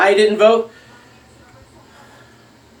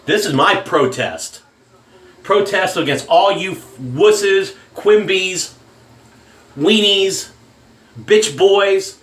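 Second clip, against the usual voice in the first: slow angry insults; 2 semitones higher, slower than usual. Real, not acted. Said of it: "I'm actually angry about this one".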